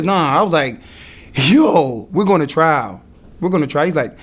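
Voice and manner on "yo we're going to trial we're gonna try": loud, emphatic pushback; firm retort, starting loud; insistent. Retold or imitated. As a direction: put your foot down, loudly at first. Retells insisting on trial to lawyer.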